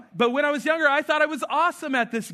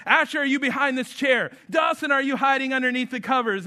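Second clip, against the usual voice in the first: hammed-up searching; 4 semitones higher than usual. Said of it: "I try to, like, build it up".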